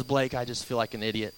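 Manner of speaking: low, soft, glum sister voice; mock deflated sister. Sister confessing she feels foolish, soft and low. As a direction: sigh it out like a sheepish sister. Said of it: "and she goes".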